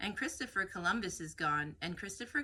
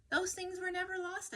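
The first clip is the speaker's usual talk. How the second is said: emphatic correction; 11 semitones higher than usual. Acted. Erzähler korrigiert Coyote nachdrücklich.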